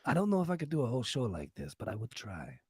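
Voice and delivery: hammed-up Spanish accent; put-on Spanish accent. Host begging subscribers in character, mock Spanish accent. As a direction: keep up the mock Spanish charmer. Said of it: "I'll talk like this forever".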